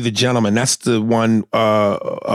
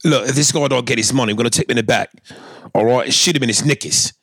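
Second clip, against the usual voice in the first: mock British gangster; faster than usual. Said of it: "that accent is anything but".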